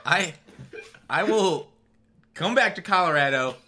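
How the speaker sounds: playful threat breaking into laughter; hammed-up revenge vow, laughing; laughing mock threat. Real, not acted. Joking threat to friend.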